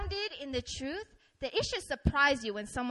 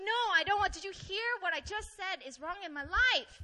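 higher-pitched mock protest; indignant refusal; 4 semitones higher than usual. Frustrated person refusing a friend's cracker, mock-indignant. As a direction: protest as if nobody is listening.

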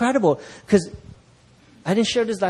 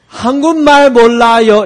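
high, fast and loud, playing dumb; mock-innocent denial; feigning no Korean; 6 semitones higher, 11 dB louder, much faster than usual. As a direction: blurt it like a clueless foreigner. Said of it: "That's how I said".

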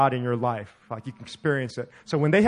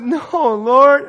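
higher, louder, laughing no; mock refusal; 10 semitones higher, 10 dB louder than usual. Preacher retelling how he refused God's request, loud and high. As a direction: refuse with comic alarm.

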